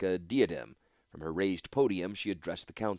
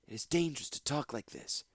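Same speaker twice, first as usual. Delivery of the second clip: nervous warning; 6 semitones higher, 5 dB quieter than usual. Acted. Woman warns.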